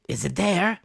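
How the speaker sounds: high, loud demanding roar. Acted. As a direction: roar the question upward. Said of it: "roared Pew".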